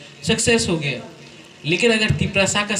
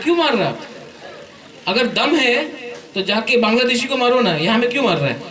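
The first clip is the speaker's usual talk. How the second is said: raised scolding; 4 semitones higher than usual. Real, not acted. Speaker scolding students hitting a boy, raised and half laughing.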